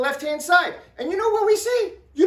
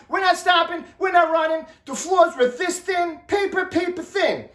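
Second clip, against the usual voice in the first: raised, protesting voice; indignant protest; 4 semitones higher than usual. Retold or imitated. Arguing back with angry neighbour.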